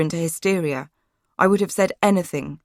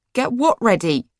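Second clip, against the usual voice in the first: shriek; 6 semitones higher than usual. A narrator's reading. Girl hearing what they prepare, shrieking. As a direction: shriek the question in alarm. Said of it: "I shrieked".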